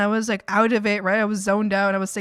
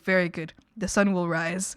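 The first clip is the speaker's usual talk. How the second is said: broken-English coworker; 4 semitones lower than usual. Retold or imitated. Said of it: "pretty broken English".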